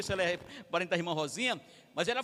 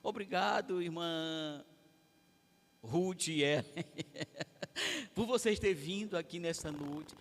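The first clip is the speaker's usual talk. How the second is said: soft, lifeless voice that fails to sound glad; flat, joyless thanks; 6 semitones lower, 10 dB quieter than usual. Shown as a demonstration. Preacher mimicking a dull thank-you to the sisters, flat and soft. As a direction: mumble your happiness with no energy.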